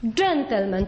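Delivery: "Gentleman" with the accent on "Gen"; stress on first syllable. Shown as a demonstration. Teacher shows where the accent falls, stressing the start of "Gentleman". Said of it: "tutaj na tę sylabę kładziemy akcent".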